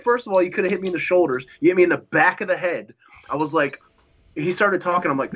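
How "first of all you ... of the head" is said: high-pitched, rapid scolding; retold indignation. Wrestler retells scolding his careless opponent, high and indignant. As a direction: re-enact chewing someone out, pitch raised. Retold angry confrontation after the match.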